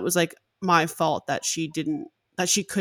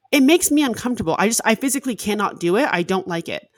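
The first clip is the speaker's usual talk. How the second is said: insistent; 3 semitones higher, 4 dB louder, faster than usual. Retold or imitated. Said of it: "And I'm like".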